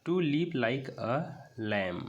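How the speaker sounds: very slow, word by word; slow reading aloud. Shown as a demonstration. Teacher re-reading the line to students, very slowly. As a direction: read it out slowly for the class. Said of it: "इसको lamb कहते हैं".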